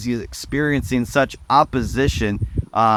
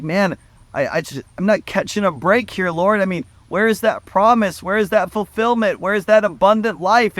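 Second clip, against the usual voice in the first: higher, pleading frustration at God; frustrated plea; 6 semitones higher than usual. Retold or imitated. Preacher voices a believer's frustrated prayer, pleading higher. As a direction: voice the listener's exasperated prayer. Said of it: "feel this frustration and maybe even this anger".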